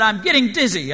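narrated yell, a little held back; mild scream. A narrator's reading. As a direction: cry out in dizzy protest, short of a real scream. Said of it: "I screamed".

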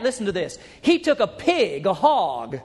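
ordinary talk

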